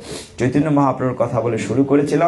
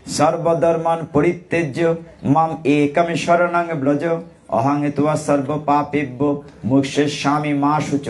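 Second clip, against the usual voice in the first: scripture recitation; slower than usual. Acted. Recites Gita verse.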